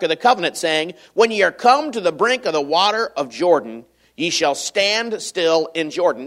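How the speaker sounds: solemn reading of scripture. Acted. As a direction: read the King James text with weight. Reads scripture aloud.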